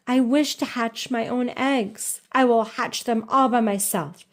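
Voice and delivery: insist, mildly petulant; quacked. Acted. Jemima insisting to Rebecca, mild quacking stubbornness. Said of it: "quacked Jemima Puddle Duck".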